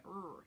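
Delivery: "Er" as a long growl of R; growly R. Shown as a demonstration. Teacher demonstrates the R to avoid, growly R. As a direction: hold "Er" with the tongue up in a hard R. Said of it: "like you're growling at somebody".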